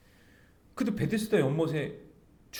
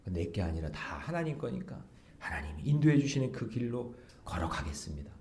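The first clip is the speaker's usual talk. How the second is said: normal talking voice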